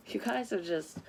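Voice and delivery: ordinary talk, nothing marked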